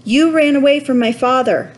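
high, upset accusation; tearful. A narrator's reading. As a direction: accuse him while wiping away tears. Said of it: "wiping his eyes on his sleeve".

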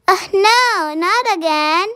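the spider's dismayed gasp at rain; a little spider's high, dismayed wail; dismayed cry. A narrator's reading. Spider feels first cold raindrop.

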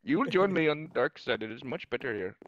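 mock Indian-accented Darth Vader. Vader tempting Luke to the dark side, Indian accent. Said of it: "had an Indian accent".

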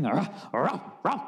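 slapstick barking noise; imitated cartoonish yelps; Curly. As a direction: bark like a stooge running in place. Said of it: "that running in place thing".

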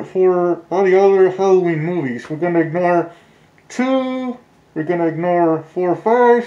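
muffled through a mask; talking behind a mask; through a face mask. Real, not acted. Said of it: "I don't know if you guys can hear me through the mask".

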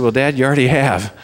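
laughing through a loud joking reply; telling dad he's had enough Wednesdays, laughing; laughing punchline. Retold or imitated. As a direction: crack up while delivering the joke to dad.

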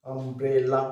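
আমব্রেলা split into three beats; আমব্রেলা broken up to show each of its three syllables. Shown as a demonstration. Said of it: "ট্রাইসিলেবল".

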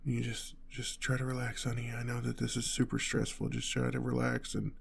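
soft, soothing wind-down; calm reassurance. Acted. Telling honey to relax on the drive, calm reassurance. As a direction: gently settle them down.

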